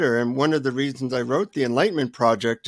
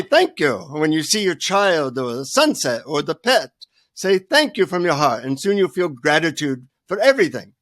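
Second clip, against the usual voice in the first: put-on Indian-accented guru. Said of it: "in his Indian accent".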